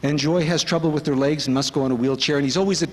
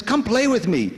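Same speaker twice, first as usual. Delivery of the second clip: quoting Swami; 5 semitones higher than usual. Retold or imitated. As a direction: coax like a loving friend. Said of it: "But he says".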